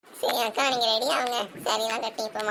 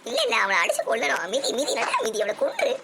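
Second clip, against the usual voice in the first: mock fury. Grandmother urging on the fight.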